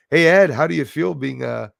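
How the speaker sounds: ordinary talk, nothing marked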